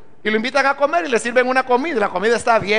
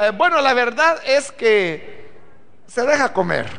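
gentle, hesitant and diplomatic, softening the truth; tactful hesitant answer. Shown as a demonstration. Guest tactfully telling the host the food was passable, gentle hesitation. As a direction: hedge kindly so the host is not hurt. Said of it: "Pero si le dice".

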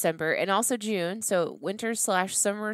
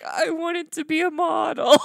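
high, loud, laughing snowman voice; 9 semitones higher, 6 dB louder than usual. Retold or imitated. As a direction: voice the upside-down snowman through laughter. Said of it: "And he was like".

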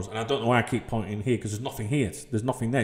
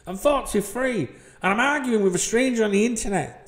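inner thought; 8 semitones higher than usual. Retold or imitated. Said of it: "I'm thinking".

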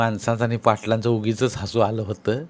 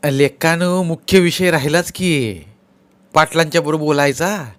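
youngest villager; 5 semitones higher, 4 dB louder than usual. Acted.

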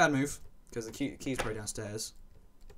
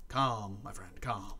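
calm; 2 semitones lower, much slower than usual. Real, not acted. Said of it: "Gotta be nice and calm for this".

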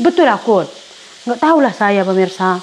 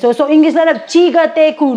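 high, loud scornful jeer at a show-off; mocking sneer; 6 semitones higher, 4 dB louder than usual. Neighbour jeering at her for speaking English, mocking. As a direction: sneer at someone showing off English.

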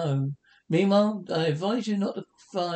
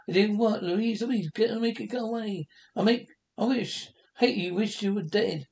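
higher, frantic terror; terrified; 5 semitones higher than usual. Acted. Jack, terrified, begs Louise to make the dog go away. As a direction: scream at her to make it stop.

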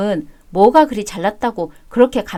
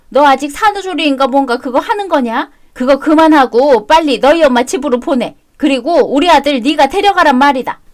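a louder, higher scolding voice; bossy mother-in-law; 4 semitones higher, 5 dB louder than usual. Acted. Mother-in-law ordering her son's wife to take him back, loud scolding.

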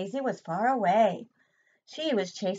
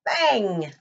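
bang; 10 dB louder than usual. A narrator's reading. Sound effect in story.

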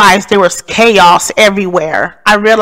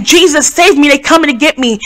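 higher, more urgent cry to Jesus; desperate plea; 5 semitones higher than usual. Retold or imitated. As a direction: beg for rescue as they close in. Chased, praying again urgently.

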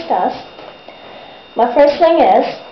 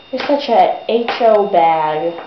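sarcastic jab; 4 semitones lower, slower than usual. Retold or imitated. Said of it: "I was like".

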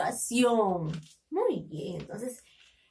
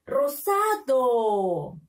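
Rosado slowly blended into one word, long falling DO; teacher joining ROSADO slowly with no gaps; syllables joined; much slower than usual. Shown as a demonstration. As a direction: read "Rosado" whole, stretching the last syllable. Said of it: "¿Cómo se lee?".

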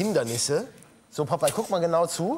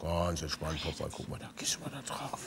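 soft coaxing; 13 semitones lower, 11 dB quieter than usual. Real, not acted. Soothing the bird onto skates.

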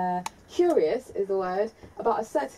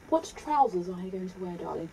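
understated Queen's English, softening at the end; Queen's English accent; 3 semitones lower, 3 dB quieter than usual. Acted. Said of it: "speak the Queen's English".

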